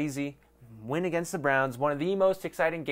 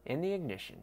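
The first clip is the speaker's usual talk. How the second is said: laughing ad reread; 2 semitones higher, 8 dB quieter, faster than usual. Acted. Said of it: "that was terrible".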